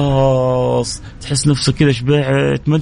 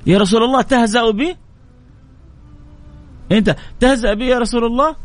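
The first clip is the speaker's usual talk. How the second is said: incredulous bedouin; 8 semitones higher than usual. Acted. Bedouin can't believe the gift.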